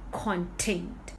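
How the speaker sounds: content said slowly as CON-tent; stress on first syllable. Shown as a demonstration. Teacher naming written material, content with stress on its first syllable. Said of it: "Here I am stressing on the first".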